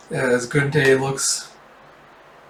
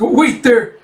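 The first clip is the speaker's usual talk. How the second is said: high, raised voice; alarmed protest; 10 semitones higher, 6 dB louder than usual. Acted. Thug calling out as a stranger steps in, alarmed protest. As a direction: call out to halt someone. Thugs react to intervention.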